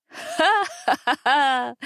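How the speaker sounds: high, slow ringing laugh; merry ringing laugh. A narrator's reading. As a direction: laugh gleefully at the pranked friends. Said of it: "весёлый звонкий смех".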